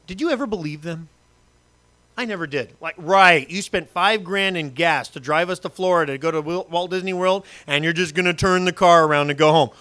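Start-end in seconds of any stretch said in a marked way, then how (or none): 3.0-9.7 loud scoffing; sarcastic disbelief. Pretend. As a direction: scoff at the empty threat. Mocking parents' threat.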